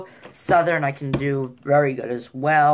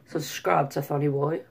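light attempt at a Scottish accent; imitated Scottish with a rising end. Shown as a demonstration. Vlogger trying accents on his channel plug, mild Scottish.

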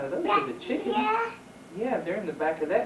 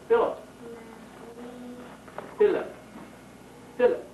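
calling out; 6 semitones higher than usual. Real, not acted. Calling child across room.

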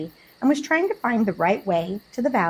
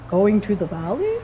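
kindly asking; 4 dB louder than usual. A narrator's reading. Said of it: "he asked kindly".

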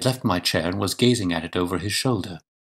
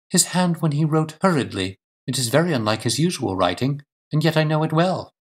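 higher-pitched wife, sure of herself; raised woman's voice, earnest and assured; certain lady; 8 semitones higher than usual. Acted. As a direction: play a wife explaining with conviction.

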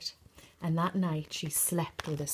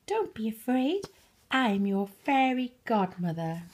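reassuring fairy; 4 semitones higher than usual. Acted. Fairy godmother reassures Cinderella.

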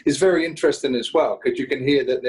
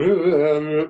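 imitated wordless demo noises; 4 semitones higher, slower than usual. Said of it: "him just going".

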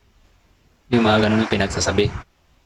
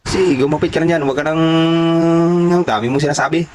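raised voice; 5 semitones higher than usual. Retold or imitated. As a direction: play the irritated dad raising his voice. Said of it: "parang tumaas yung boses niya". (ginagayang tatay na tumaas ang boses)

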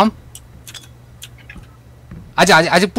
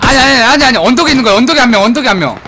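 loud, higher urgent shouting; urgent callout; 4 semitones higher, 4 dB louder than usual. Real, not acted. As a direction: yell it out to the squad. Urgent callout correcting teammates. (다급하게 외치는 목소리)

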